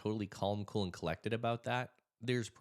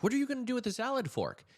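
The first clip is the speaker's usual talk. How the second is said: higher, louder, fast disbelief; can't believe what she's holding; incredulous; 6 dB louder, faster than usual. Retold or imitated. Son asking his mom about her salad fork, incredulous.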